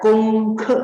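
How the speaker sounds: "kongke": high level, then falling; first and fourth tones. Shown as a demonstration. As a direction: hold "kong" level, drop sharply on "ke". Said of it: "nada pertama dan keempat".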